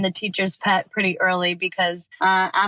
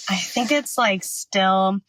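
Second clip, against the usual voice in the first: breathless, rushed talk; talking fast, short of air; out of breath. Real, not acted. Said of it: "I'm kinda talking fast and I'm out of breath".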